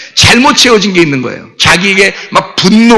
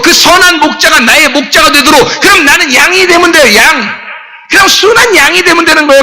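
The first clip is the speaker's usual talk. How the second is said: high, driving sermon delivery; impassioned preaching; 6 semitones higher than usual. Real, not acted. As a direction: press the point home to the congregation. Preaches at full force. (힘주어 높게 외치는 설교)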